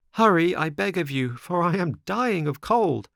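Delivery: high-pitched urgent plea; pleading marionette. Acted. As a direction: beg like a puppet out in the cold. Shivering marionette begs the snail.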